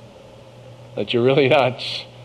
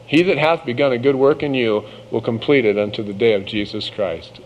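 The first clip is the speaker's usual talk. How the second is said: scripture reading. Acted. Quoting scripture.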